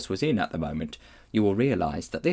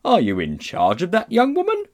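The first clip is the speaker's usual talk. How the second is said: officious question climbing high; policeman; 9 semitones higher, 4 dB louder than usual. A narrator's reading. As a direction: interrogate pompously, pitch rising to the end. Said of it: "said the policeman".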